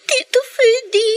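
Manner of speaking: tearful plea. Acted. Girl begs uncle for help.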